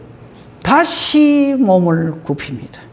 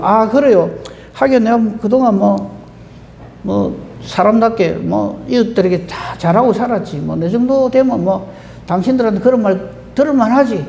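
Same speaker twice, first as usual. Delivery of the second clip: mock smug reply; 2 semitones higher than usual. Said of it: "만약에 아브라함이 이제 덜 떨어진 사람 같으면".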